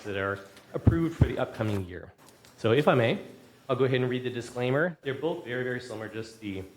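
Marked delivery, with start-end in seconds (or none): 3.7-6.6 breathless from the stairs; short of breath, panting lightly. Real, not acted. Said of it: "I'm out of breath from coming down the stairs".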